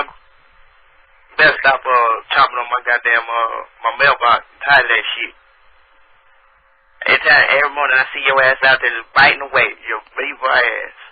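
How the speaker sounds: put-on country accent, grumbling; countrified mock complaint about a neighbour. Prank caller scolding a beaver over his mailbox, country accent. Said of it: "my country ass voice".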